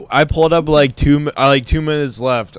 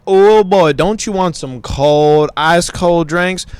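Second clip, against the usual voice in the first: hint of a hammy commercial voice; drawn-out, lightly imitated sales pitch; mock ad pitch; 4 semitones higher, 3 dB louder, slower than usual. Imitating a Sheetz ad for his friend, mock pitch. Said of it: "it's the most racist one, where it's like".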